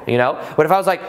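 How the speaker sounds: ordinary talk, nothing marked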